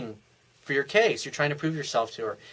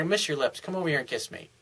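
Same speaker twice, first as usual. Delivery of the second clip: soft flirty invite; 6 dB quieter than usual. Shown as a demonstration. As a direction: coax her in close and easy. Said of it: "just like".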